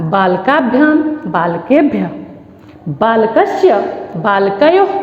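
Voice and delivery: each form said separately and evenly, with pauses; measured classroom drill, stretched syllables; model declension recitation. Shown as a demonstration. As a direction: recite the Sanskrit table for pupils to follow. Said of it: "बालक शब्द रूप को कैसे पढ़ेंगे".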